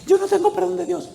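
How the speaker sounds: very high imitated wail; retold anguished outburst; mock yell. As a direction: cry it out in acted despair. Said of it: "Y él gritaba".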